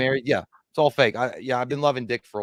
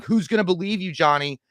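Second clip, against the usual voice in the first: goading; 6 semitones higher, 3 dB louder than usual. Retold or imitated. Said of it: "she was pretty much goading you".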